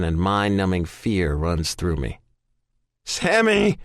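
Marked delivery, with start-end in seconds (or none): 3.0-3.8 loud, high scream of a name. Acted. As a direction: scream for help down the stairs. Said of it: "I'm screaming".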